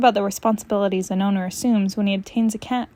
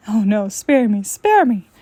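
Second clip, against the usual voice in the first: mock plea; 5 dB louder than usual. Cat begging dramatically.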